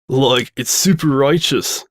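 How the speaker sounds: slow, lazy stoner voice. Acted. Second stoner praising the place, slow lazy stoner voice. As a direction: drift through it, slow and dazed. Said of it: "said the other".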